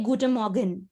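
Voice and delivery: guten Morgen said the German way; German guten Morgen, clear and careful; German pronunciation. Shown as a demonstration. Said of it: "if you wanna say good morning".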